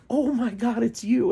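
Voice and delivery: high, loud starstruck squeal; excited hippie girl. Retold or imitated. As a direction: gush like a fan spotting a celebrity. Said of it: "And she's like".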